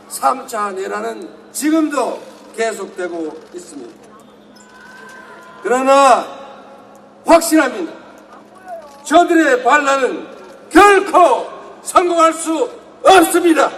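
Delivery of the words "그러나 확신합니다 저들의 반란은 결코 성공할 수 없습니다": fiery revolutionary speech. Real, not acted. Climax of rally speech.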